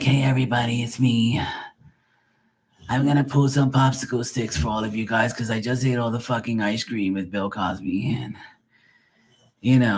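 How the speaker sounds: lightly voiced smoker lady, a hint of chalk; mock the medium with a touch of her smoky voice; chalky smoker voice. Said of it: "she has that chalky voice".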